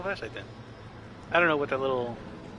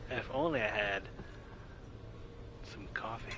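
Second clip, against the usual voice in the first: quiet wistful whisper of "coffee"; mock the line, whispering the end; whispered parody; 5 semitones lower, 12 dB quieter than usual. Shown as a demonstration. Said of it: "I don't like the wording".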